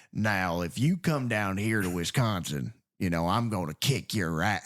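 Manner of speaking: lightly put-on Southern voice, pitched low; mock Southern accent. Podcaster mocking rural Wisconsin farmers in movies, light Southern accent. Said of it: "you're not gonna have American Southern accents".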